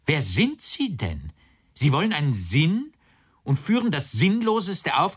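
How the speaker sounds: high-pitched indignant bewilderment; dismayed outburst. A narrator's reading. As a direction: protest in rising disbelief, pitched well up. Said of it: "mehr bestürzt als geärgert".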